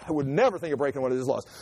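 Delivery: overzealous promise, hammed up; mock eager vow. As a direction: swear it too eagerly. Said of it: "Would you break one of his laws".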